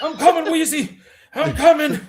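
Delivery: high, loud mock wail with laughter; sitcom catchphrase impression. Co-host imitating an old sitcom gag, loud mock cry. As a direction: call out in a hammed-up high voice.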